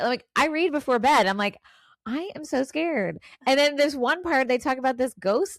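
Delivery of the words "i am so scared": higher, slow, emphatic mock fright; retold terror. Podcaster retelling her bedtime reading scare, slow mock fright. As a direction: draw out each word in exaggerated dread. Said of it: "But I'm, like, terrified".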